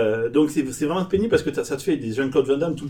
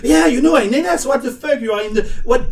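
much higher and louder, hammed-up anger; imitating an aggressive outburst; mock aggressive; 10 semitones higher, 7 dB louder than usual. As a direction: play the angry tourist, overdone. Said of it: "je suis passé un peu en mode agressif".

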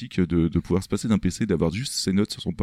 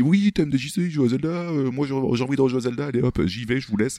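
higher-pitched quoted voice, chirpy mimicry; imitation de la cheffe; 5 semitones higher than usual. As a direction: mimic her breezily signing off in a raised voice. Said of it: "Elle a dit". (imitation de la cheffe, voix haut perchée)

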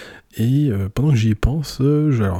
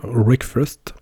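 English accent. Real, not acted. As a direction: say Wreckfest with a mock English accent. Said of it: "avec mon accent anglais à la con".

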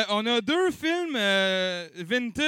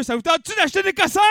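fast, high pitch to the crowd; hyped auction host; 8 semitones higher, 4 dB louder, much faster than usual. Pretend. Auction host asking crowd to buy junk, hyped. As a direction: rush it out high like a sales call.

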